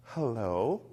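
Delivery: soft, peaceful greeting; cool, calm hello. Retold or imitated. Teacher answering the phone, calm and peaceful. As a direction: answer gently and unhurried. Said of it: "cool, calm, peaceful".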